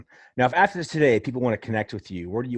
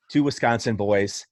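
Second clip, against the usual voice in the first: Wisconsin accent. Real, not acted. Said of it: "you got a little bit of your Wisconsin accent into it".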